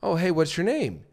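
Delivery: lifted, questioning ending; rising like a question. Shown as a demonstration. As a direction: sound unsure, seeking approval. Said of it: "almost like a question mark at the end".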